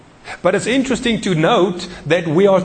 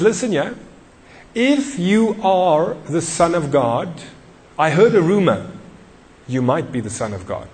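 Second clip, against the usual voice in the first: Satan. Retold or imitated. Tempter to hungry Jesus, lightly mocking doubt. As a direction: taunt lightly, stretching out the challenge. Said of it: "he walks up to him and he says".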